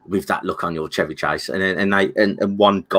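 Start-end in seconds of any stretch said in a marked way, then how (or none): 0.1-1.5 lightly voiced film character, low and subdued; imitating film character. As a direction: quote the movie line in a lower, softer voice. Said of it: "I'm trying to speak like a black guy".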